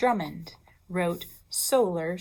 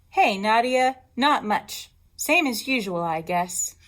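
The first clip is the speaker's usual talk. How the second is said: schoolgirl reply; 2 semitones higher, 4 dB louder than usual. Acted. Teacher voices second schoolgirl.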